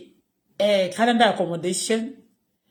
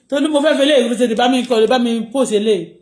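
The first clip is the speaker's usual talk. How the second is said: calling out; 4 semitones higher, 7 dB louder than usual. Real, not acted. Calling Tolu across the room.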